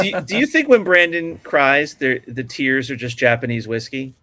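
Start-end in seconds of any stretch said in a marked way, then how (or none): 0.0-1.9 laughing. Real, not acted. Joking about a co-host.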